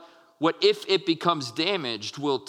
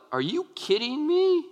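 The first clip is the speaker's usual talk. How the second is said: high-pitched disbelieving question; incredulous; 8 semitones higher than usual. Acted. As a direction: act out mock disbelief, pitch climbing high. Jesus acted as incredulous with disciples.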